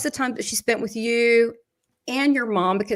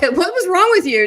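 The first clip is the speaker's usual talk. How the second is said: higher, louder retold question; mock incredulous question; 8 semitones higher, 6 dB louder than usual. Medium retells asking the late grandmother what happened, mock incredulous. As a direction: imitate someone demanding an answer.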